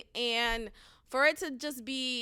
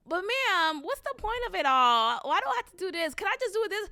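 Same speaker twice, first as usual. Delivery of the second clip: put-on higher, whining kid asking why; child whining at the teacher, high and pleading; whiny child; 7 semitones higher than usual. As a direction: play a kid pestering the teacher.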